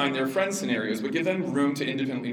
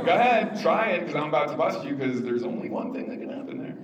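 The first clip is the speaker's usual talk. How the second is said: daring parent. Shown as a demonstration. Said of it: "and then the other one is".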